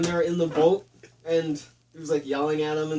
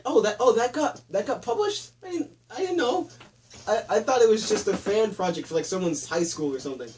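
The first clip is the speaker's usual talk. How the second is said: high, surprised mock voice; voicing a baffled Caine; 3 semitones higher than usual. Caine surprised the film got released, high and baffled. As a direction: pitch up, play innocent and puzzled. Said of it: "It's like".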